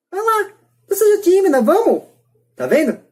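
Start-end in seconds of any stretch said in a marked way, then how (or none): 0.1-2.0 much higher, cooing mock encouragement with a whimper; a father teasingly urging a gun to shoot, high and whimpering; coaxing the gun. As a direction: coax it like a shy pet, pitched way up. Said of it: "ele mostra uma arma e pergunta".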